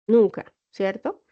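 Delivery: "nunca" said slowly and leaned on; teacher stressing "nunca". Shown as a demonstration. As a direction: lean hard on "nunca" to drive the point home. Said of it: "una coma nunca nos va a separar párrafos".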